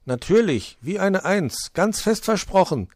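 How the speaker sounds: high, confident character voice; emphatic assurance. Acted. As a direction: assure them firmly, pitched well up. Wichtel insists the ladder is stable.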